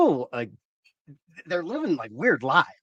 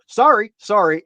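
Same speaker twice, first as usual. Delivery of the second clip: Canadian sorry; 6 semitones higher, 6 dB louder than usual. Retold or imitated. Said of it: "they both go".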